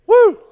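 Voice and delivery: a very loud, very high whoop; excited whoop. Real, not acted. Preacher carried away mid-sermon, real loud excited whoop. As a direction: burst out whooping with joy. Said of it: "Excuse me for getting excited".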